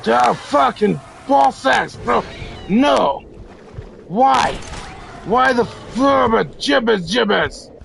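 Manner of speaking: a real yell of rage at the screen; angry gamer shout. Real, not acted. Gamer yelling at zombies, furious shout.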